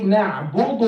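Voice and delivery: "نعبد" with a thickened, altered d; mispronounced dal. Shown as a demonstration. Teacher showing a big mistake, "نعبد" with the dal altered. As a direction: spoil the d in "نعبد". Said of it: "make the dal into dal".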